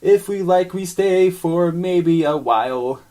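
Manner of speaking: a hint of a grand new creature; monster voice. Voiced character Roger.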